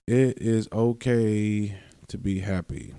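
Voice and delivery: slow, stretched-out words of comfort; slow reassurance. Real, not acted. Podcaster giving listeners permission, slow reassurance. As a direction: draw out OKAY and take your time.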